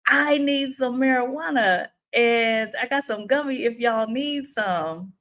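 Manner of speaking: tipsy lady voice. Retold or imitated. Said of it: "This lady says".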